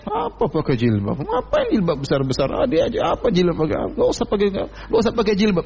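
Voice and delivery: sneering mock of a hijab critic, rising high at the end; imitating a scornful mocker; mocking scoffer. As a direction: scoff like someone belittling the hijab. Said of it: "kalau yang diejek jilbabnya".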